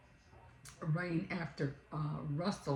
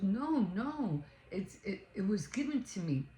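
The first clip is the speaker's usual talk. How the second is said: higher-pitched retold protest; pleading denial; 4 semitones higher than usual. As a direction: imitate a maid protesting an accusation. Accused maid denies stealing the pin.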